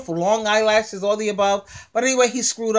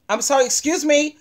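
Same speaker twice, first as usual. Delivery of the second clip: higher-pitched, pointed "excuse me"; "excuse me" pitched up as a challenge; mock-polite challenge; 4 semitones higher than usual. Woman confronting a man on the train, pointed mock apology. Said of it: "she's gonna be like".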